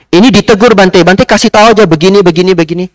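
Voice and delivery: high, loud bossy instructions; young man's order. Retold or imitated. Young man orders the monk to reprimand others, high and bossy. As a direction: tell the monk whom to scold. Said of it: "Saya diperintah lagi".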